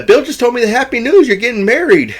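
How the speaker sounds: very high, put-on gushing woman's voice; mock congratulations. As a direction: gush over the news, imitating her. Jo congratulates the couple.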